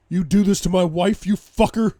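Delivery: loud, high roar of rage; enraged bellow. A narrator's reading. Husband attacking his wife's attacker, enraged bellow. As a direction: bellow it at the man you're kicking. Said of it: "I bellow my rage".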